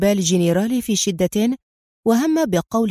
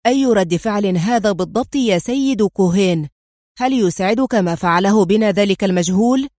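louder, indignant demand; angry outburst; 3 dB louder than usual. Acted. General confronting Cohen after the door closes, angry. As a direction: let the anger explode. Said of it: "انفجر الجنرال قائلًا في غضب".

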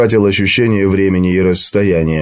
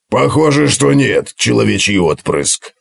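dwarf voice. Acted. Gotrek voiced in story.

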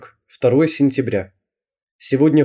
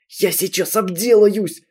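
еле терпит; 7 semitones higher, slower than usual. Acted.

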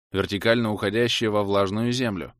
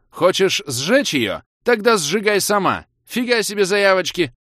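much higher, much louder enraged yell; furious yell; 9 semitones higher, 6 dB louder than usual. A narrator's reading. Hero yelling furiously at the fire cobra. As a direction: scream it at the cobra in fury. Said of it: "в бешенстве заорал".

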